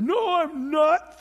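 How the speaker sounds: emphatic denial. Retold or imitated. Peter's third denial.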